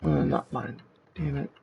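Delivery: distorted robot demon voice filter. Real, not acted. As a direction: talk through a robot demon voice effect. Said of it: "There's the demon voice for the next ten minutes".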